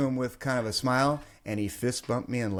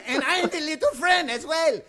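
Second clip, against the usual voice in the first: high voice of angry little dude; comic pissed-off imitation. Joking as the short angry stranger, pissed. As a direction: play the livid little guy for laughs. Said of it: "like, going pissed".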